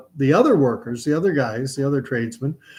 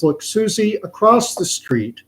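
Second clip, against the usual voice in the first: mother; 6 semitones higher, 3 dB louder than usual. Acted. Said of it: "And her mom says".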